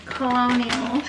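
Colonial said kʰəloʊniəl for Colonel; Colonial, four syllables like colonial times; mispronounced Colonel. Real, not acted. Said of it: "She thinks Colonel's Colonial!".

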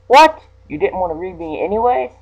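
squeaky high, loud startled what; hammed-up startled yelp; mock surprise. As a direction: act shocked, pitch leaping up.

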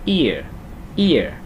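"ear" as one glided syllable, i sliding into ơ; đọc dính lại. Shown as a demonstration. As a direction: run i and ơ together in each "ear". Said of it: "Đọc dính lại". (đọc "ear" dính liền i với ơ)

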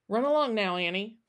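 forced cheer that doesn't quite land; thinly cheerful send-off; failed cheeriness. Acted. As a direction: try to sound cheery for a child and fail. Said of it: "trying to sound cheery, but failing".

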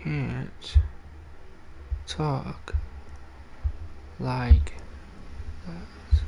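Can't, talk, like, that, each set apart by pauses; deliberate word-by-word scolding. Real, not acted. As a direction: lay out every word separately. Spelling out the rule to chat.

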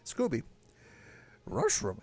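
Scooby-Doo. Retold or imitated. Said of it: "Oh, that's Shaggy".

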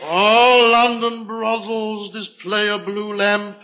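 slow, loud guide's announcement; tourist guide. Acted. Guide informing foreign tourists, slow loud announcement. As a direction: announce it slowly and loudly, like official advice. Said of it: "give information to the tourists".

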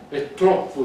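a loud, indignant outburst; exclaiming. Acted. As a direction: blurt it out, fed up. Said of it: "esclamò Elizabeth". (esclamazione indignata)

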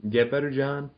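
rising sing-song pitch. Pretend. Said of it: "Let's not keep going up".

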